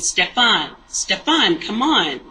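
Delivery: imitating an impatient, insistent call; aggressive summons. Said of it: "aggressive with it".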